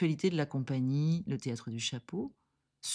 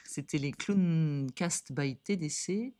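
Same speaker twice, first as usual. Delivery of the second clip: flight attendant; slower than usual. Acted. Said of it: "Tu peux le dire, du coup, parce que t'es une, t'es une, euh, hôtesse de l'air".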